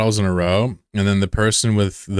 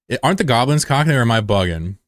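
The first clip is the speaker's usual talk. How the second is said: excited question; 4 semitones higher, 3 dB louder than usual. Real, not acted. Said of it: "excited question".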